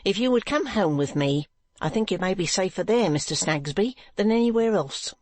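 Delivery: stern wife ordering her husband home; severe sinister. Acted. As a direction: let the smile turn menacing. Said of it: "severe and sinister smile".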